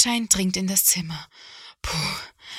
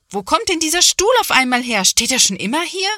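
loud, high puzzled grumble; annoyed exclaim; 8 semitones higher, 7 dB louder than usual. A narrator's reading. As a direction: complain loudly about the chair. Mother stumbling in the dark. (Mama, laut und hoch, ärgert sich über den Stuhl)

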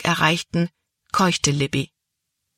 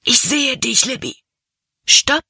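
high, loud call after her; 8 semitones higher, 4 dB louder than usual. A narrator's reading. Caleb calling after the running Libby, loud and urgent. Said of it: "rief Caleb nochmals".

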